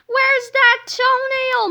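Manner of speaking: high, stretched-out yell; loud, high-pitched desperate demand; acted scream. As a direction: scream it slowly in frustration. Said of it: "Melvin screamed".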